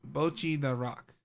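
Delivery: slow, drawn-out repeat for clarity. Real, not acted. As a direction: say it slowly, stretching each word. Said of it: "Can you say that slower?".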